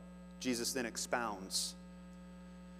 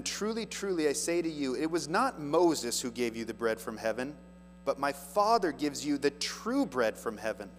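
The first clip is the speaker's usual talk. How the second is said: raised, louder preaching read; scripture reading; 4 dB louder than usual. Acted. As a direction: proclaim the verse to the congregation. Reads Jesus' words.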